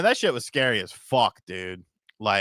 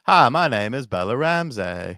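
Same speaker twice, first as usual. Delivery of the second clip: Southern accent; 4 dB louder than usual. Shown as a demonstration. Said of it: "I think you should do the Bella Ramsey".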